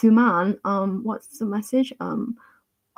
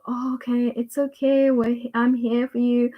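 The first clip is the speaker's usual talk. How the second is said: gentle self-soothing; 2 semitones higher than usual. Acted. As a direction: reassure yourself kindly and unhurriedly. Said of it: "gentle and go".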